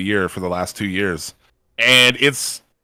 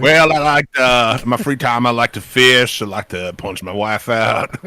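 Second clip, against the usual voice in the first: mock Southern accent; 2 semitones higher, 6 dB louder than usual. Podcast host mocks a Southern guy's hobbies, loud mock Southern accent. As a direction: play a loud, hammed-up Southern good ol' boy. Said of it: "I don't know why he has a southern accent".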